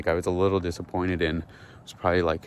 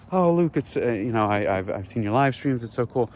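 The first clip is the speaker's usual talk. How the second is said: higher-pitched, halting fan greeting; retold fan gushing; 4 semitones higher than usual. Fan walking up to Luke Thompson, retold gushing. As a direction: gush a little, starting high.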